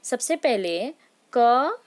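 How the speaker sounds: क drawn out slowly with a rise; teacher modelling क; clear demo syllables. Shown as a demonstration. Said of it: "देखिए बच्चों".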